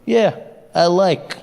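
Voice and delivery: put-on terse Russian accent. Comic imitating the Russians taking Crimea, Russian accent. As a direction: answer like an unbothered Russian, in accent. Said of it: "the Russians were just like".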